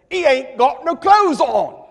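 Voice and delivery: put-on cheeky Cockney kid; Cockney accent. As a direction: say it like a London street child. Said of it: "in perfect Cockney accent".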